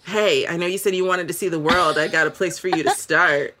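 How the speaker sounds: lightly voiced dude texting late at night; mildly mock a guy's smooth invitation; dude named Chad. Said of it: "from a dude named, like, Chad".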